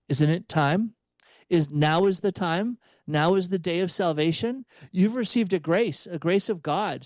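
measured, earnest urging to oneself; self-directed imperative. Acted. Catholic looking in the mirror, urging oneself to act, imperative. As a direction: press yourself firmly to act now. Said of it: "say it as an imperative looking in the mirror".

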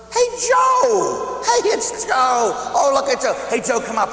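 high, loud shout across a crowd; calling out. Retold or imitated. Holy Father shouting out to Joe across the square.

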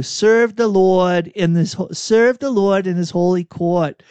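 put-on reading in a Boston accent, r dropped; psalm read with Boston vowels; Boston accent on court and Lord. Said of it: "It was your accent".

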